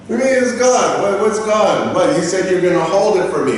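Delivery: high, incredulous protest; indignant disbelief. Retold or imitated. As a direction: retell it as a baffled customer objecting. Acted quarrel with airline clerk.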